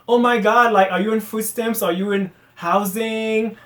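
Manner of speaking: lightly imitated patronizing concern; mock condescension. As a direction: parody someone prying with fake concern. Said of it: "why do you need to talk down".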